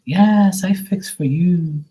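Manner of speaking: put-on high, slow Portuguese-accented broken English; mock Portuguese accent. Portuguese Maria offering to cook, in a high Portuguese accent. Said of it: "When they talk, like, broken English".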